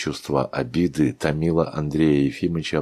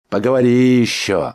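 loud threat; guard barks back through the door; gruff retort; 6 semitones higher, 8 dB louder than usual. A narrator's reading. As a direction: snap back at him. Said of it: "ответил за дверью Никита".

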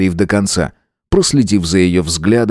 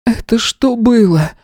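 much higher, slow, angry woman; angry hostess; 13 semitones higher, slower than usual. A narrator's reading. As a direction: round on him in anger. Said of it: "её гнев".

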